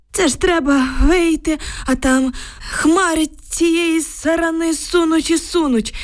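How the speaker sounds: put-on high, anxious old villager's voice; frightened old man. A narrator's reading. Old neighbour telling girls about the tanks, anxious. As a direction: tell it like a shaken old grandad.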